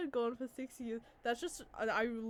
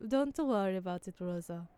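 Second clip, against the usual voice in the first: accidental Italian-sounding lilt; lightly botched Italian accent; 3 semitones lower than usual. Acted. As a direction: reassure with a hint of stage Italian. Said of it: "it's gonna sound Italian instead".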